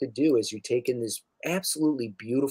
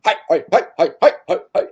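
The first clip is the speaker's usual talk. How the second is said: high, loud breathy hi's pushed out; airy creature hi; 5 semitones higher, 7 dB louder, much faster than usual. Acted. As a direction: puff the hi's out like air from holes. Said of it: "force air out of their many sort of holes".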